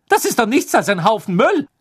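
a touch of amused scorn; scornful dismissal. Acted. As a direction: toss it aside as rubbish. Hermine scornful about the article.

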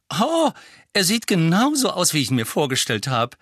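high, loud, gushing exclamation; excited young witch. A narrator's reading. Young witch seeing Harry for the first time, excited.

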